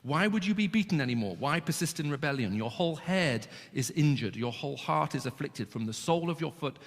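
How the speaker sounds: solemn reading of scripture. Acted. Preacher reads God's words to his people, solemn. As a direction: read the prophet's warning to the nation. Reads Isaiah passage aloud.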